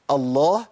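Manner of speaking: "الله" with a thick, dark l; heavy lam. Shown as a demonstration. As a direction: make the l in "الله" full and emphatic. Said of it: "اللام تقبل التفخيم".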